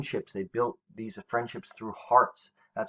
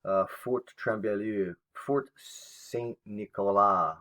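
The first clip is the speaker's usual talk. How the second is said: slow, careful French accent on the fort names; teacher putting on a French accent, sounding out each fort; much slower than usual. Shown as a demonstration. Teacher reading French fort names to the class, in a French accent. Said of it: "I'm trying to do my best French, um, impression, or I guess, uh, accent".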